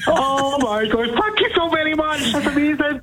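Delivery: high and gushing; thrilled. Real, not acted. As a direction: gush your thanks in a high voice. Caller thanks host after winning.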